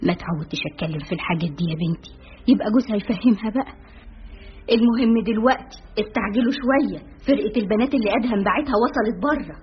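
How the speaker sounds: fast, embarrassed rush; rushing the words out, a bit flustered; hurried. Acted. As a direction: hurry through it, eager to change the subject. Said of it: "وهي تقول في عجلة من أمرها".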